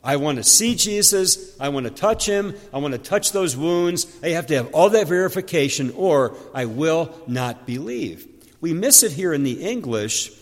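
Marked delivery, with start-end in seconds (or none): 0.0-8.2 lightly voiced stubborn doubter laying down terms; mild mock insistence, refusing to budge; demanding Thomas. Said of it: "So Thomas was demanding a lot".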